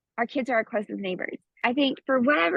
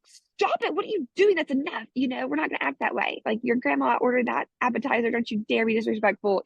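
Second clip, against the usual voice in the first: scolding parent; 2 semitones higher than usual. Retold or imitated. A mother scolding her daughter over cheese dip, mock stern. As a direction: snap at the child to stop it. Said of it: "the gut reaction is like".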